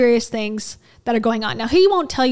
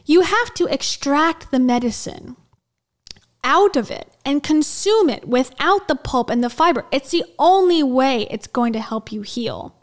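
over-enunciated reading. Acted. Telling viewers how to heal, mildly over-enunciated. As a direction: lightly imitate a guru's emphatic delivery. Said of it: "tries to enunciate all of the words".

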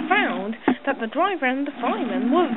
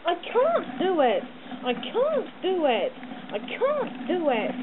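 slow, strained, panting; puffing; 5 semitones higher, slower than usual. A narrator's reading. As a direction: push each word out with effort. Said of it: "puffed Gordon".

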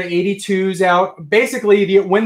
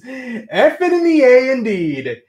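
mock solemn chat voice; 7 semitones higher, 3 dB louder, slower than usual. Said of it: "Craig says".

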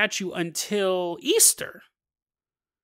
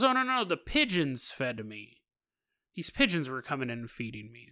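softer, lower, matter-of-fact; innocent hush; 4 semitones lower, 7 dB quieter than usual. Retold or imitated. Zoya telling the doctors that pigeons fed her, soft and innocent. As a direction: explain the pigeons as if it were obvious. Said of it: "she goes".

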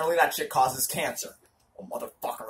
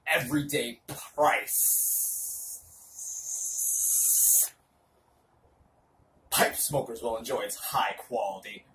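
hammy stage actor; 3 semitones lower than usual. Shown as a demonstration. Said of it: "Dramatic reading of half a bag".

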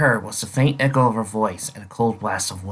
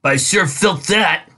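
raised, excited exclamation; exclaiming; 7 semitones higher, 4 dB louder than usual. Acted. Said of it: "her exclamation".

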